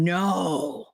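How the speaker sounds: a self-parody of blowing up; playing my own outburst at the know-it-all; mocking myself angry. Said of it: "That's me going".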